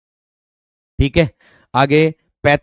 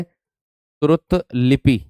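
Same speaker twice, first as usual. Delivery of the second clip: slow dictation; much slower than usual. Shown as a demonstration. Teacher spelling a word for students, very slow. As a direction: draw out श्रुत लिपि very slowly. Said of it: "श्रुत लिपि होता है".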